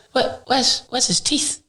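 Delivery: high, disbelieving cry; shocked. Retold or imitated. Seeing a teammate's jaw split, shocked and high. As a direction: gasp it out in horror.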